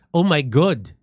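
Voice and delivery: mock New Zealand "oh my God"; clipped-vowel Kiwi imitation, "God" as "good"; New Zealand accent. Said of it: "That's how they say God in".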